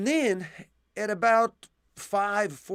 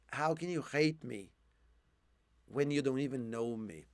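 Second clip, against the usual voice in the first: hoarse quiet question; 4 semitones lower, 6 dB quieter than usual. Real, not acted. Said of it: "I'm losing my voice now".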